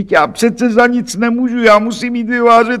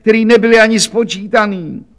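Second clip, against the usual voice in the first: much higher, louder ongoing wail; bawling on; 10 semitones higher, 4 dB louder than usual. Acted. Laundress bawling her poverty at the police clerk. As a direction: keep howling the grievances. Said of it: "řvala dál".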